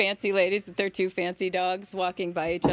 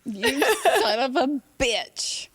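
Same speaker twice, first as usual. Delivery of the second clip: slow, higher comic indignation; mock outrage; 6 semitones higher, 3 dB louder, slower than usual. Woman confronting a catcalling cat, mock outrage. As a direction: stretch the insult out with relish. Repeats the sketch's insult.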